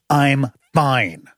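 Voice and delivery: clipped, cool reply in another voice; wife deflecting. Retold or imitated. Wife brushing off her husband's question, coolly.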